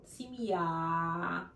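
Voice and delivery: Семья with the stress on the final я; stress on the end. Shown as a demonstration. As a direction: lean on the last syllable of Семья. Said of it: "the stress at the end of the word".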